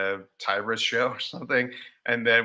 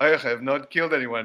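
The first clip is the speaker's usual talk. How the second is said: put-on dark, grim Russian accent character voice; 4 semitones higher, 3 dB louder than usual. Riffing on a character idea, a russian who's seen some shit, dark russian accent. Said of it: "that's sort of a Russian who's seen some shit".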